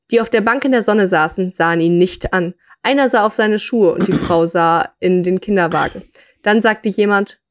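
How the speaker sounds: measured read-aloud storytelling voice; story narration. A narrator's reading. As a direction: read the short story out to listeners.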